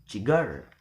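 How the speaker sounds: "cigarette" wrongly stressed on middle syllable GA. Shown as a demonstration. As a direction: punch GA in "cigarette". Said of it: "We will never".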